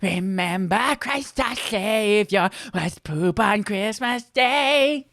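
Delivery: slow sung carol with a lisp; impression of a singer. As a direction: croon the carol in a lisping voice. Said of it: "I have to get my singer".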